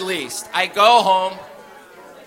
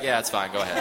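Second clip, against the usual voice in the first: 1 lowered cop voice; 11 semitones lower, 7 dB quieter, faster than usual. Retold or imitated. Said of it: "He's like".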